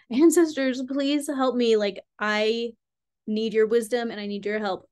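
laughing plea to the ancestors; begging. Retold or imitated. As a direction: beg the ancestors for help.

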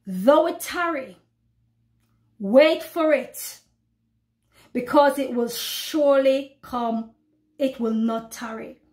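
slow, solemn verse, pausing between phrases; preacher reading scripture slowly to her flock. Acted. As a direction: linger on "wait for it". Reads verse.

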